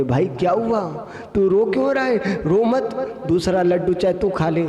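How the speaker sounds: a concerned friend soothing his sobbing companion; consoling friend. Acted. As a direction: gently coax him to stop crying, voice lifted. Friend comforts crying friend.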